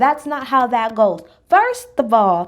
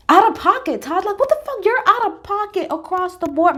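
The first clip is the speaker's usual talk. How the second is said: higher, incredulous outcry; shocked disbelief; 8 semitones higher than usual. Real, not acted. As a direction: react like you can't believe he said it. Reacting to Todd's claim.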